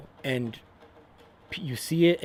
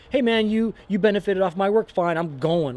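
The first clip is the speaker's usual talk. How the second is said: unbothered honey badger; 6 semitones higher, 5 dB louder than usual. Honey badger shrugging off freeloaders.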